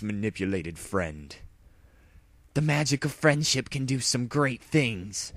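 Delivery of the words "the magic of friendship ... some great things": lightly higher hero voice; heroic mare voice. A narrator's reading. Dash lecturing the villain in a lightly heroic voice. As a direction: proclaim it like a hero. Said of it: "Dash said".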